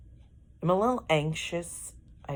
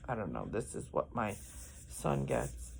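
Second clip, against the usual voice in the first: ordinary talk, nothing marked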